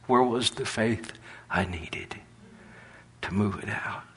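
soft unvoiced whisper. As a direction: hush it like a secret. God's words quoted softly.

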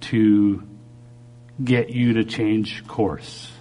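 slow, solemn word with long pauses; quoting the Lord. Retold or imitated. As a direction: deliver it slowly, phrase by phrase. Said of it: "this is what He said".

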